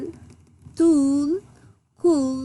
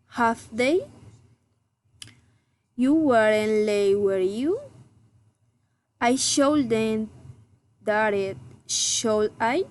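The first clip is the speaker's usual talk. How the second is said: level statement, then "do you?" rising at the end; tag-question intonation. Shown as a demonstration. Teacher models tag questions, rising intonation on the tag. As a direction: lift the tags "have they?" and "should I?". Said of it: "or raising intonation".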